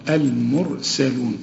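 المرسلون with the R full and heavy. Shown as a demonstration. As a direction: recite المرسلون slowly with a thick R. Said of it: "فخمها".

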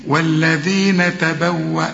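والذين تبوأ with the final hamza stopped; pausal form. Shown as a demonstration. Teacher shows a forced stop. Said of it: "هنقول ايه".

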